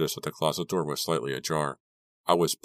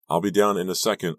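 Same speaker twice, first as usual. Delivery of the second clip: calling back; 3 semitones higher, 4 dB louder than usual. Acted. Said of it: "I called back".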